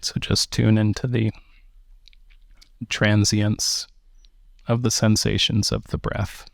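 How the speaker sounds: measured meditation guidance with long pauses; unhurried meditation teacher, phrase by phrase; guided meditation. Acted. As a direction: guide listeners gently into the breath, leaving space between phrases.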